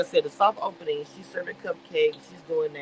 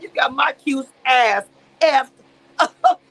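mock outrage; 6 semitones higher, 9 dB louder, slower than usual. Retold furious outburst.

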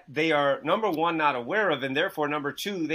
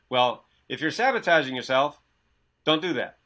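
glib, know-it-all advice, a bit louder; mock guru advice; 3 dB louder than usual. Mocking the gurus' advice to his listener, smug and glib. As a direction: parrot the gurus' empty fix. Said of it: "you know what they said before me".

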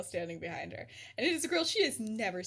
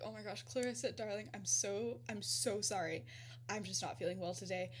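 soft, lowered, placating; soothing apology; 3 semitones lower, 5 dB quieter than usual. Retold or imitated. Professor to upset Clarissa, soft apology before leaving. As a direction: gently excuse yourself in a hushed retold voice.

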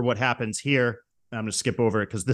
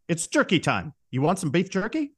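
put-on character voice; 5 semitones higher than usual. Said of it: "he's putting on this voice".

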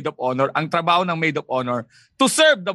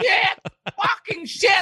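shocked outburst; 12 semitones higher, much slower than usual. Acted. Acting a woman's shocked reaction.

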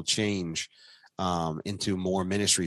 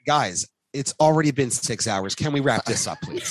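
raised, louder imitation of an impatient plea; teasing mock plea; 6 semitones higher, 5 dB louder than usual. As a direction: plead in jest, higher and louder. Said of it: "Arlie's here like".

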